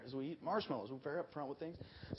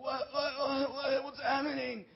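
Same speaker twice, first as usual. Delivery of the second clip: a slightly higher dazed stammer; dazed confusion; 9 semitones higher, slower than usual. Retold or imitated. Student waking up confused after the prayer. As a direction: come to, bewildered.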